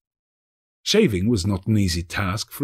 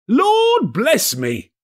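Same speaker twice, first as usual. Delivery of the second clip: high, slow, stunned exclamation; breathless astonishment; 5 dB louder, much slower than usual. Acted. Gentleman stunned by Scrooge's gift, breathless and high. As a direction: gasp it out, breath taken away. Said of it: "cried the gentleman, as if his breath were taken away".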